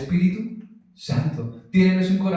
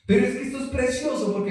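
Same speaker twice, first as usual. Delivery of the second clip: rushed, higher-pitched real excitement; emocionado; 4 semitones higher, faster than usual. Real, not acted. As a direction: let the excitement carry you away, quickly. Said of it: "me emociono". (emocionado de verdad, atropellado)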